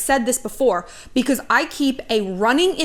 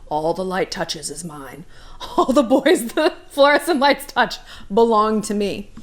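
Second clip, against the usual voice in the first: Lion King ruler; 2 semitones lower than usual. Pretend. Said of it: "Lion King shit".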